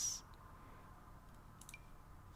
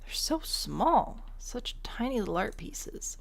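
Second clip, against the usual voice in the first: cooing; 4 semitones higher, slower than usual. Real, not acted. Cooing over tiny art.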